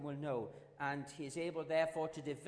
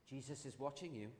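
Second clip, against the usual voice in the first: eerie voice; 5 semitones lower, 9 dB quieter than usual. Acted. Voice from the dark corner.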